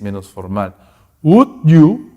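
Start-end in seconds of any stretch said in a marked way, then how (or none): 1.2-2.1 polite. Shown as a demonstration. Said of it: "es más cortés".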